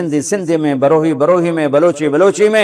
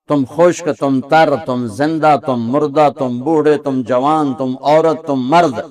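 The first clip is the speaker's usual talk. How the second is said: normal talking voice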